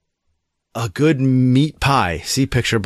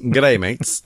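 half-hearted Australian greeting; attempted Australian accent. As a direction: toss out a weak Australian accent. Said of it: "how is my my Australian accent".

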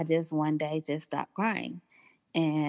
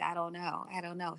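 fading whisper-soft repeat; 9 dB quieter, faster than usual. Retold or imitated. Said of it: "and I'm like".

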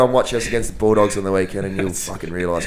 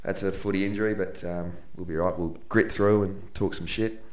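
croaky voice; 6 dB quieter than usual. Real, not acted. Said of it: "he's got, got a bit of a croaky voice".

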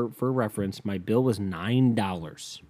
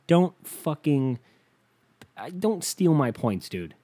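slow and pitched up; exasperated rant; 4 semitones higher, slower than usual. Real, not acted. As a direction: drag out the annoyed plea. Angry rant about stolen points.

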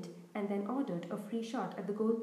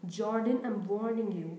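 louder, sharp teacher's warning; teacher warning the commentator, louder and sterner; 6 dB louder than usual. Acted. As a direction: snap the name as a final warning. McGonagall warns Lee sharply.

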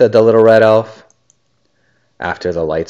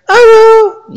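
high, eager story yell; yelling penguin; 10 dB louder than usual. A narrator's reading. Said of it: "yelled the penguin".

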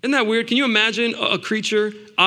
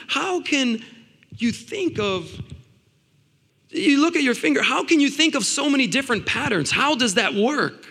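retold amazed shouting; 7 semitones higher than usual. Preacher asking God about so many patterns, mock-shouting in wonder. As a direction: re-enact marvelling questions in a high, straining voice. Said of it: "I was over here shouting like".

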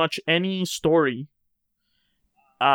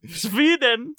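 excited laughing shout; 10 semitones higher than usual. Real, not acted. Host reveals he's Swedish.

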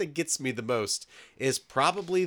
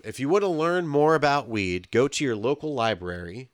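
mock PSA voice. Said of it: "Dave Chappelle says".

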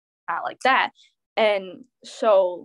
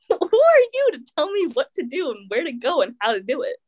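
higher, affronted challenge; exasperated, pitched-up comeback; indignant telling-off; 5 semitones higher than usual. Retold or imitated. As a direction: retell putting a nosy ex in their place. Retold telling-off of controlling ex.

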